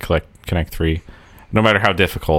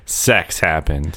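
deadpan; much slower than usual. Retold or imitated. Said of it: "And it's like".

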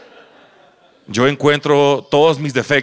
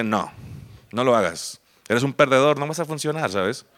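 discouraging conscience; 4 dB quieter than usual. Retold or imitated. His conscience telling him not to try, quietly discouraging. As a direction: quietly talk yourself out of it. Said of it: "mi consciente me dice".

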